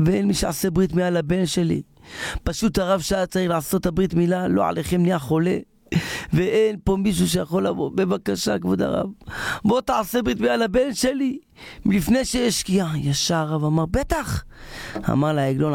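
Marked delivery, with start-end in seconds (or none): 0.1-13.0 high-pitched, imploring appeal; acted plea, rising in urgency; urgent pleading. Man begs rabbi for circumcision. 13.9-14.4 eager agreement. Acted. Rabbi readily agrees to help.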